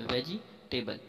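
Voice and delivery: "वेजिटेबल" in four syllables, ve-ji-tay-bal; common pronunciation. Shown as a demonstration. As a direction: say "वेजिटेबल" with a full "ji". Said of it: "जिसे हम पढ़ते हैं". ("वेजिटेबल", पूरा "जि" बोलकर)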